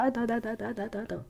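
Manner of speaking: quoting the client. Retold or imitated. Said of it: "t'as commencé à dire".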